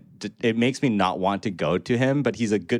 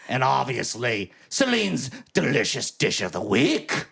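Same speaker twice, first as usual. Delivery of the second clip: slow, higher hammed-up pirate captain, fading out; 3 semitones higher, slower than usual. Podcast host opening the show as a pirate, slow hammy pirate voice. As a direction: ham it up like a pirate hailing the crew, then let it slip. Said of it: "I'm gonna launch into this epic intro".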